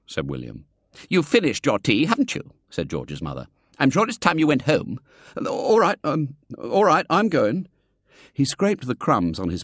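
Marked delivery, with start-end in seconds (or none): 1.1-5.0 cold dismissal. Acted. Mother dismissing boy. 5.4-7.7 put-on sheepish boy. Boy cowed leaving.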